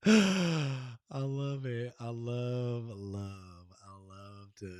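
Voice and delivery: choked up with love, drawn out; real, emotional. Real, not acted. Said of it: "I'm getting emotional".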